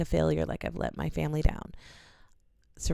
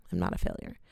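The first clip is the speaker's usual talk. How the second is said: whispered through tears, almost no voice; a real, barely voiced whisper of self-belief; tearful whisper. Real, not acted. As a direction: breathe it out, fighting tears. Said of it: "like, about to cry".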